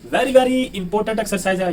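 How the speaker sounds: Very, very said slowly and drawn out, each word weighted; slow emphasis. Shown as a demonstration. Teacher tells students the exercise is vital, slowly stressing it. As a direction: stretch out Very, very important to drive it home.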